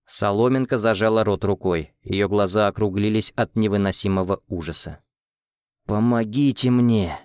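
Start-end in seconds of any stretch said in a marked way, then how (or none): 5.9-7.2 pleading. Acted. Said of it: "взмолился Лихейн".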